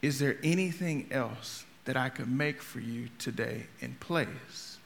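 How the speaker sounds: calm her hangry husband down softly. Retold or imitated. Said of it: "she said in a very calm voice".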